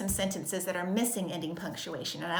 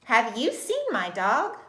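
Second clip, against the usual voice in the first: slow question, louder, voice going up on "dog"; questioning rise; 3 semitones higher, 5 dB louder, slower than usual. Shown as a demonstration. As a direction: lift the pitch at the end on "dog". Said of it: "my voice went a little bit up".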